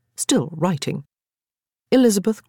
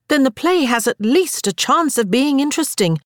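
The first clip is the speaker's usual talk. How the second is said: wicked explanation; 9 semitones higher than usual. A narrator's reading. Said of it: "Elizabeth explained".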